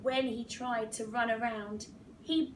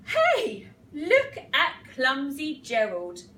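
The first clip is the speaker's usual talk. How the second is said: jeering animals; 9 dB louder than usual. A narrator's reading. Lions heckle Gerald as he comes to dance, loud jeering. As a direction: call out teasingly across the dance floor. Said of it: "the animals all laughed".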